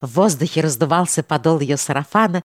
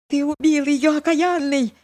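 hoarse accusation; 10 semitones higher than usual. A narrator's reading. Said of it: "хрипло проговорил юродивый".

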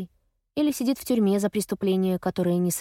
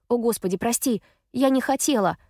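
high, louder anguished plea; upset, raised voice apology; distressed apology; 4 semitones higher, 4 dB louder than usual. Acted. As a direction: beg forgiveness in a rush of guilt. Apologizing to crying sister.

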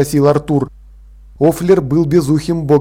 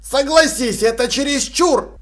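high, placating character voice; pitched-up, appeasing plea; conciliatory; 9 semitones higher than usual. A narrator's reading. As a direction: reason with him to smooth it over. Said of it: "примирительно сказал он".

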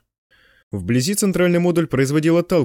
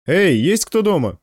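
slow, raised call into the room; 4 semitones higher, slower than usual. Acted. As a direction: call out to whoever is inside. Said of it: "позвал Кайман".

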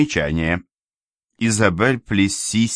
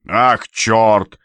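louder startled curse; exclaiming; 3 semitones higher, 6 dB louder than usual. Acted. Official cries out as water spills, louder exclamation. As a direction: blurt it out in alarm. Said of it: "воскликнул Ряжский".

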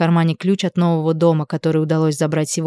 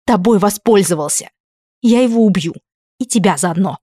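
furious threat; 2 semitones higher than usual. A narrator's reading. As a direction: promise it through your teeth.

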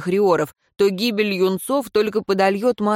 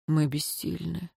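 husband quietly admitting helplessness to his wife; 9 dB quieter than usual. A narrator's reading. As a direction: say it under your breath in defeat. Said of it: "тихо сказал он".

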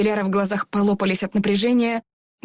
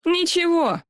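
smiling; 9 semitones higher, slower than usual. Acted. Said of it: "улыбнулся Тануки".

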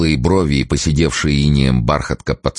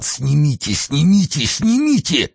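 rising, ever higher wail of pain; moaning plea; 13 semitones higher than usual. Acted. Frozen officer begging to pull socks off, rising moan. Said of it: "простонал".

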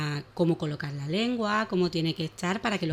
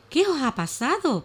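lightly voiced kind horse; 8 semitones higher than usual. Horse asks the animals.

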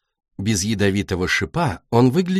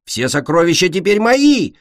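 gloating; 7 semitones higher, 4 dB louder than usual. Acted. Thief gloats over treasure.

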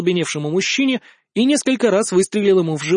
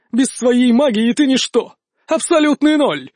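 higher, drawn-out gloating jeer; scornful taunt; 5 semitones higher, 3 dB louder than usual. A narrator's reading. Duelist belittling an enemy without magic, scornful. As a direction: taunt him as a worthless nobody. Villain taunts his opponent mid-duel.

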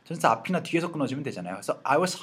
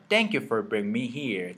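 slow model reading; 2 semitones lower, much slower than usual. Shown as a demonstration. Teacher reading the line aloud slowly for students to copy. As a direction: thank you for bringing me here read slowly and evenly. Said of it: "한 번만 더 시작".

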